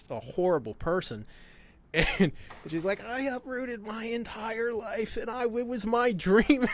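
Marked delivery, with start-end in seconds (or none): 3.0-6.7 high, slow mock sob; imitating a distraught woman's tearful wail; mock crying. Retelling the crying breeder, in a mock tearful voice. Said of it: "she was crying telling me this".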